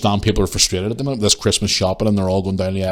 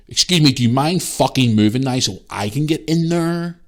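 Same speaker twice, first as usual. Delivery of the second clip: retold snappish demand, a little higher; rude demand; 4 semitones higher than usual. Imitating woman who wants in at the aisle, rude. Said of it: "Like that".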